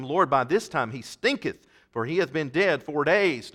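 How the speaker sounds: loud, measured King James reading; scripture reading. Acted. Preacher reading scripture to the church, loud and measured. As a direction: read the verses out to the congregation. Reads scripture aloud to congregation.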